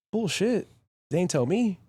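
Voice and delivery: high-pitched mock protest; imitated incredulous denial; retold indignation. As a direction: object in disbelief, pitch leaping up. Retold protest about curfew.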